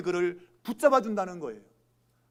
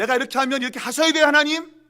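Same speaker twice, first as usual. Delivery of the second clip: fast, higher, louder ultimatum to God; threatening demand; 5 semitones higher, 6 dB louder, faster than usual. Retold or imitated. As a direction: imitate a believer pressuring God. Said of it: "협박하는 거죠". (하나님을 몰아붙이는 협박조)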